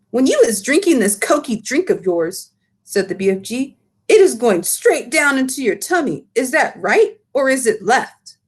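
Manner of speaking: a hint of giant teasing; mildly mocking giant; lightly voiced giant. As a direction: BFG doubting Sophie, lightly voiced. Giant explains to Sophie.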